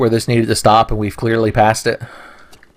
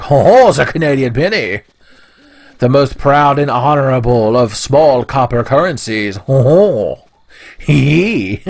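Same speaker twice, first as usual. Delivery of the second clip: a hint of a proud, jolly gentleman; lightly voiced hearty chuckling character; Jean-Luc Tenfey; 2 semitones higher than usual. Praising the Canadian penny, lightly voiced jolly gentleman. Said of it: "Jean-Luc Tenfey would be like".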